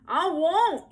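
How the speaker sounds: put-on high, loud defiant child's shout; defiant yell. A narrator's reading. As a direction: yell your refusal back at her. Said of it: "yelled Howie".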